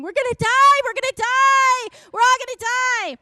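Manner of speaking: a high, very loud panicked wail. Retold or imitated. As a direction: wail in terror that everyone will die. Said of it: "the last one is just wailing".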